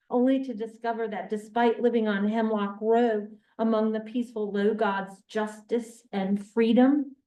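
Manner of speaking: measured literary reading voice; reading aloud. Acted. Reading a novel passage to the listener, measured.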